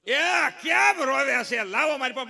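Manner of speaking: hammed-up granny calling out to the baby; mock grandmother. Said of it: "એની grandmother". (દાદીની નકલ, ઊંચા અવાજે બૂમ)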